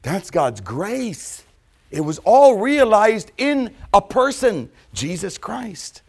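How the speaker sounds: solemn climax; slow proclamation. Acted. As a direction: stretch each word out.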